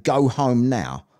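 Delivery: low, slow voice in the head; telepathic voice. Retold or imitated. Telepathic voice ordering him home, slow and low. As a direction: drop low and draw out each word. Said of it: "he heard a telepathic voice in his head saying".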